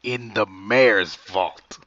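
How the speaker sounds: drawn-out, incredulous echo; slow disbelief. Acted. Guard hears of the vault plan, slowly incredulous. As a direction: spell it out slowly, not believing it.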